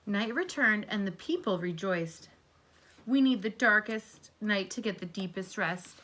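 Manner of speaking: gentle read-aloud to a class; storybook reading. Acted. Teacher reading a story aloud to her class, gently. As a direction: read it like a picture book for kids. Reads picture book to class.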